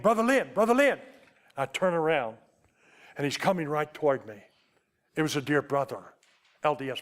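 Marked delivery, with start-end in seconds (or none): 0.0-1.0 higher and louder call across the foyer; calling out a name. Retold or imitated. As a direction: call his name to catch him from a distance. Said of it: "yells my name".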